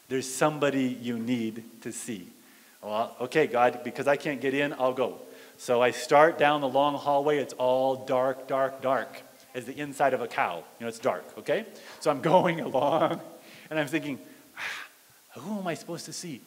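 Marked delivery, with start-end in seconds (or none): 0.1-2.3 low, soft, firm reply as God; quietly refuse, no argument; hushed divine instruction; still small voice. Acted. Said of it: "still small voice of God". 2.8-5.2 low, subdued surrender; resigned, softer agreement; reluctant giving in. Retold or imitated. Gives in to God reluctantly. 14.5-16.4 hushed, very soft wondering; quiet, apprehensive aside; nervous thinking aloud. Retold or imitated. Creeping down dark hallway, thinking.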